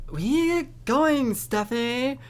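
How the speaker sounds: put-on high, loud valley girl voice; girly friend voice. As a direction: pitch it way up like a bratty friend.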